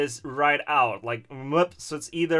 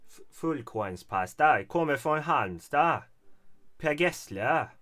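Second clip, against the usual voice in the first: Halmstad dialect. Shown as a demonstration. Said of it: "How, how they speak in Halmstad?".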